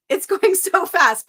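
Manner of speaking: giggling at the flood of chat; laughing. Real, not acted. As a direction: laugh through the words, overwhelmed.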